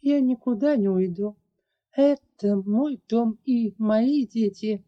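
barked. Acted. The dragoness refusing to leave her home, barking. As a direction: snap it out, standing firm. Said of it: "рявкнула драконица".

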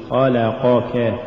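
slow خلقك, even short vowels; full vowels. Shown as a demonstration. Teacher repeats correct recitation, خلقك slow and even. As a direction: give each syllable of خلقك equal room. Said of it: "قل".

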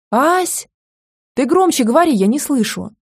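high loud granny shout; deaf granny shouting. A narrator's reading. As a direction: demand he speak up as a deaf grandmother. Deaf grandmother demanding louder speech.

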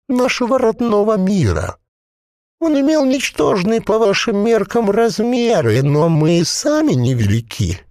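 a possessed corpse bubbling out its words; gurgling voice. A narrator's reading. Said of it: "бульканье маслянистого варева".

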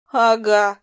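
laughing. A narrator's reading. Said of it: "рассмеялась я".

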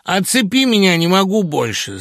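loud, high, desperate plea; exclaimed. A narrator's reading. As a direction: cry out to be unhooked. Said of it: "свободолюбиво воскликнул Лёха". (громкий отчаянный возглас)

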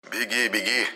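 a hint of snide sniggering. A narrator's reading. Monya snickering after the fleeing assistant. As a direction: jeer at her behind her back. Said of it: "ехидно похихикал Моня".

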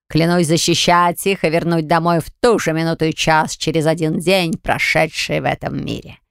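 slow, sinister dark spirit; ominous oath. Acted. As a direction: swear it ominously, slowly. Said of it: "Зловеще прозвучала её клятва".

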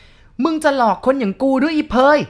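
almost shout the accusation; enraged old man yelling at the girl; near shout. A narrator's reading. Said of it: "ชายคนนั้นพูดแทบจะเป็นตะโกน".

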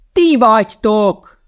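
slow, loud, exasperated shout; angry shout. A narrator's reading. Teacher shouts the answer at pupils, angrily. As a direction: bellow each word drawn out. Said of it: "kiabálta haragosan".

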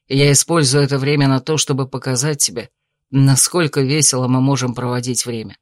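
calm suitor. Acted. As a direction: reason with her gently. Male lead character voice.

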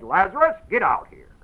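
calling out. Retold or imitated. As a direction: call him out of the grave. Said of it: "he said".

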